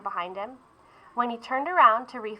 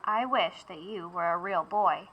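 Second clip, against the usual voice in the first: whispered; 3 semitones lower, 7 dB quieter than usual. Acted.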